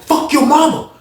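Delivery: high-pitched imitated cursing; mock angry insult. Officer repeating her insult to the inmate, high mock anger.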